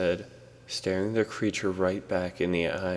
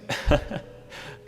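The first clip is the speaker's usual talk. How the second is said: slight laugh; 8 semitones higher than usual. Acted. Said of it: "He laughed slightly".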